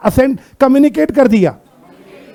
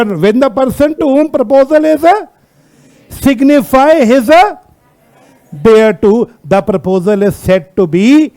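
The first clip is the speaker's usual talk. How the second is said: drawn-out reading, phrase by phrase; stretched words with pauses between phrases; slow read-out; much slower than usual. Shown as a demonstration. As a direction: read the clause very slowly to a class. Reading the law's wording to class.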